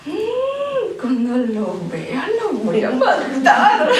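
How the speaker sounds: slow, half-laughing mock threat. Sister joking she'll kill the husband, slow and half laughing. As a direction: growl the threat but let a laugh slip. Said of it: "y yo decía".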